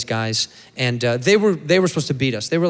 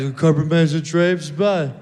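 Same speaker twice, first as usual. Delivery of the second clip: white guy; 2 semitones higher than usual. Acted. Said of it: "White guys".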